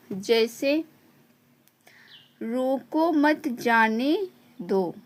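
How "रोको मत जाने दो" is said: "रोको मत जाने दो" very slow, words set apart; deliberate pausing. Shown as a demonstration. Teacher reads out the example sentence, slow deliberate pausing. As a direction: draw out "रोको मत जाने दो" with small breaks. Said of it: "बोलते समय थोड़ा सा ठहराव लेते हैं".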